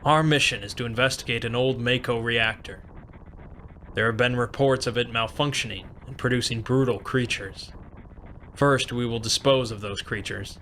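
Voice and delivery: lightly voiced, composed mission briefing; brief the squad evenly, in a restrained voice; measured commanding officer. Voices officer briefing his men.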